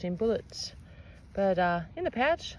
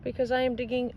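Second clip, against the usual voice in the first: silly odd voice; 5 semitones higher than usual. Acted. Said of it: "Oh my God, what is that voice?".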